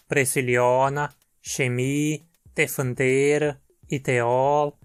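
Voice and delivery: each trema e said as a full clear e. Shown as a demonstration. Teacher shows trema words, each e clear. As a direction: model the full e sound, word by word. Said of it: "precisa ser pronunciado E em vez de E".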